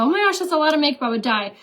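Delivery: fast, high gasping oh my gosh; mock commenter. Viewer shocked at heavy makeup, quick high mock gasp.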